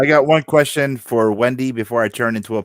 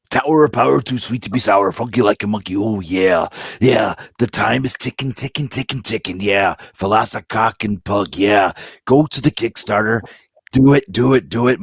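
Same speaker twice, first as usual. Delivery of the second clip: Macho Man voice; 3 semitones lower than usual. Pretend. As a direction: cut a promo like Randy Savage. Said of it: "you gotta do it in the Macho Man voice".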